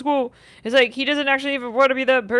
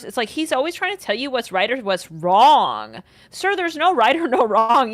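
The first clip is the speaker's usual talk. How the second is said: ordinary talk, nothing marked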